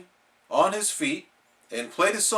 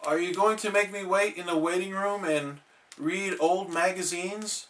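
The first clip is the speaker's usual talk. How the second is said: worried; 4 semitones higher, 4 dB quieter than usual. Acted. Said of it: "asked the worried SpongeBob".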